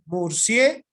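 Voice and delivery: "Murciélago" split after a loud, rising "sie"; "Murciélago" in two chunks, stressed on "sie". Shown as a demonstration. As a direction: punch "sie" in "Murciélago", pause, then "lago". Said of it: "¿En qué sílaba está el acento?".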